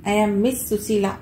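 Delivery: మిస్ pressed hard and drawn out, slightly slow; stress on Miss. A narrator's reading. Susheela correcting the young man, stressing మిస్. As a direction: lean on మిస్ to correct him, a little slow. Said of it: "మిస్ దగ్గర పొత్తి పలుకుతూ".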